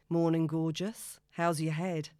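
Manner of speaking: slow, smooth morning greeting; lightly voiced charmer; charming man. The speaker's voice.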